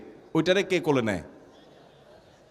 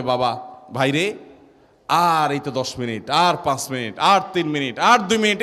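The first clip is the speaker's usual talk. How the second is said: consoling; 3 semitones lower than usual. Retold or imitated. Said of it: "সবাই সান্ত্বনা দেয়".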